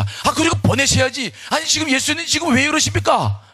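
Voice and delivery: high-pitched, acted indignation; acted exasperated protest; angry complaint. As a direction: demand an answer, thoroughly fed up. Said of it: "예수님께 뭐 화를 내는 거예요".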